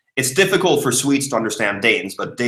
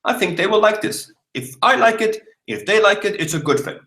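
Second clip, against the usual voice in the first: high-pitched inner voice; 10 semitones higher than usual. Pretend.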